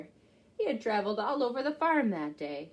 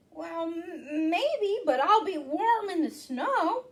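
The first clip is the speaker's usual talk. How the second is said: Hedgie voice; 5 semitones higher than usual. Acted. Hedgie speaks in story.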